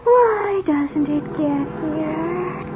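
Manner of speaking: fretful trance voice, near tears; anxious dreaming murmur; sleepwalking. Acted. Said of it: "She's in a trance".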